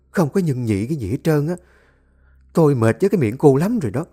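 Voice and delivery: shrill-voiced rebuke of the family squabble; scolding mother-in-law. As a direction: tear into them like a furious mother-in-law.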